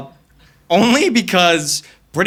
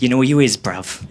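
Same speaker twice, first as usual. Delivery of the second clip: mock British thug; 4 semitones lower than usual. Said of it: "they're just like".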